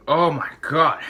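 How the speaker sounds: loud pained "oh my God"; shocked gasp. Real, not acted. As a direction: blurt it out in shock. Pain from spicy food.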